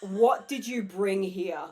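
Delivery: slow, laughing mock question; friend's unspoken look voiced, laughing; laughing slow quote. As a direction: drag it out while laughing. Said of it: "just like, without saying a word".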